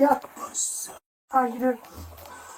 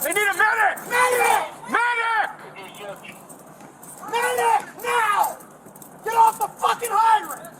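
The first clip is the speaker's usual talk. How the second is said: man down shout; 5 semitones higher, slower than usual. Real, not acted. Officer keeps calling for a medic.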